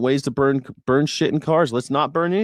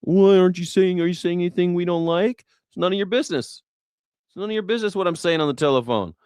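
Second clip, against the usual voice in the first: comedic rant; 7 semitones higher than usual. Acted. Comic ranting at snooping politicians, indignant and high. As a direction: yell it like you're fed up with being spied on.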